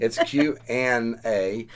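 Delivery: slow Southern Q and A; drawn-out Southern spelling; Southern accent. Real, not acted. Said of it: "Southern accent".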